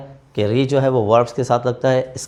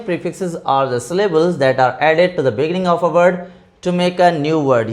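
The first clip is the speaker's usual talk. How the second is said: slow dictation; 3 semitones higher, much slower than usual. Shown as a demonstration. Teacher dictates English definition.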